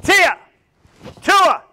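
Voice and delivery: high, sudden, punchy call; shouted drill command. Shown as a demonstration. Instructor cueing block and punch, shouted. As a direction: snap the command out loudly.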